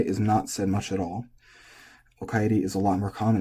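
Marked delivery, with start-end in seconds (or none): 2.2-2.6 okaeri held level; flat okaeri. Shown as a demonstration. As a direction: say okaeri evenly. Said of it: "and that is flat".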